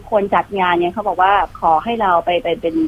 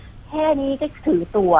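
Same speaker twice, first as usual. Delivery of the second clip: mock sneer; 6 semitones higher, 4 dB quieter, slower than usual. Mimicking a sneering commenter.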